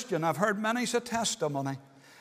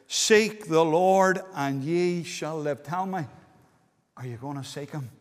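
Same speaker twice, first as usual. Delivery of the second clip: earnest quiet plea; 5 semitones lower than usual. Shown as a demonstration. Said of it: "Oh, listen, there's a promise".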